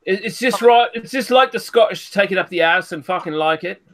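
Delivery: hammed-up posh Londoner, sneering; lightly done upper-class English voice, mocking; mock posh English accent. Taunting the Scottish friend in a mock posh English accent. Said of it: "You posh cunt".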